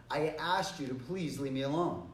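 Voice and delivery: polite but slightly firmer; a little stronger. Shown as a demonstration. Second request to someone still bothering you, mildly firm. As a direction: add mild pressure from "asked" on. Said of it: "be a little bit stronger".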